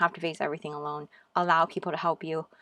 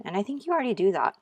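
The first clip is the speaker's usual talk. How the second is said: quick, bright, raised aside; excited; 4 semitones higher, 3 dB louder, faster than usual. Real, not acted. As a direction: blurt it out eagerly, fast.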